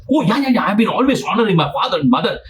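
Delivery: high, quick, eager self-praise; eager boasting. Retold or imitated. Rich man eagerly listing his good deeds, high and fast. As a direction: rattle it off proudly. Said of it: "He was very excited".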